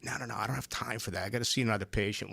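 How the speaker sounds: fast, hurried no no no; rushed doctor brush-off. Retold or imitated. Mocking a busy eye doctor, rushing. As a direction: brush the patient off quickly. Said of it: "he's like".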